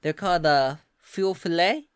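put-on lilting Southern US accent; Southern accent, explaining with interest; Southern belle. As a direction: talk like a Louisiana Southern belle. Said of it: "Come on, Southern Belle, y'all".

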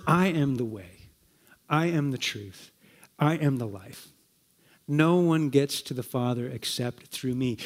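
low solemn declaration; solemn Jesus quote. Retold or imitated. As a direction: speak as Jesus declaring who he is, gently.

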